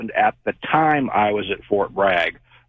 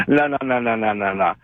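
laughing voice. Retold or imitated. Voice in caller's head answering his question, laughing dismissively. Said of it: "The voice goes".

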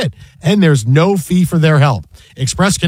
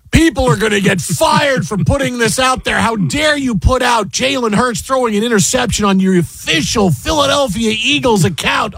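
mock outrage; 5 semitones higher than usual. Imitating outraged fans.

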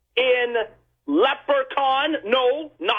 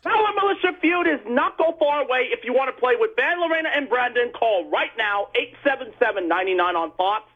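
voiceover promo. Pretend. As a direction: rattle off a radio promo. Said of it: "can you be my voiceover guy".

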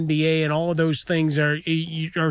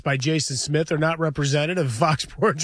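mock disclaimer read. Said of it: "The opinions expressed by".

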